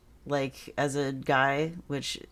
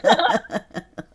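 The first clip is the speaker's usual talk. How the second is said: high, loud burst of laughter; a big real laugh; 10 semitones higher, 9 dB louder than usual. Real, not acted. Laughs at own joke.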